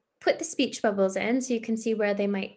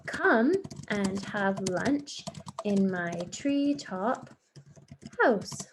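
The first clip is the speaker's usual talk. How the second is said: slow statement; much slower than usual. Shown as a demonstration. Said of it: "The full stop".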